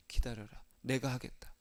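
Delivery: low, hushed assurance; quiet divine command. Acted. Jesus answering an impatient believer, low and quiet. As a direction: hold them back softly and firmly.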